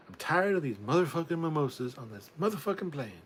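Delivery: high, hammed-up exasperation; mock-furious movie line. Parodying a film line about mimosas on a plane, hammed-up fury. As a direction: rant with mock outrage, punching the swear words.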